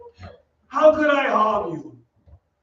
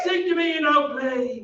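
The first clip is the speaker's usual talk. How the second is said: crazed demand; 4 semitones higher than usual. Acted. Phantom demanding, unhinged.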